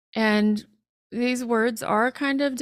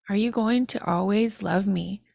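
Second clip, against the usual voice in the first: throat a little hoarse, frog in throat. Real, not acted. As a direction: speak through a frog in the throat. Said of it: "I got a frog in my throat now".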